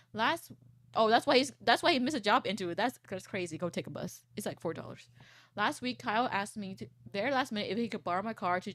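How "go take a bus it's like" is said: usual speaking voice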